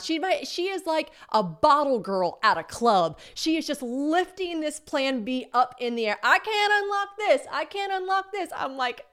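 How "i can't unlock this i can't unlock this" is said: high put-on cashier voice. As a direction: squeak it like a helpless clerk. Voicing the cashier.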